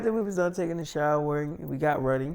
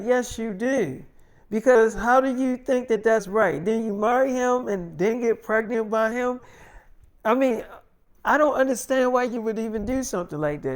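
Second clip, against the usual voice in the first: imitating an insistent mother, higher-pitched; mildly heated, pitched-up telling-off; scolding mother; 5 semitones higher than usual. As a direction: press her with indignant questions. Mother scolds daughter by phone.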